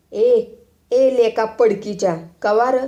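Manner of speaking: loud, high furious retort; enraged boy. Acted. Babya yelling at the boy who blamed him, furious. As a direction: snap back at the accuser in a rage. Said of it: "बाब्या खवळून म्हणाला".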